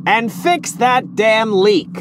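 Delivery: slow, pointed angry order; a short-fused boss lets his temper slip; flash of temper. Acted. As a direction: snap the order out slowly, losing his temper. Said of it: "Temper again".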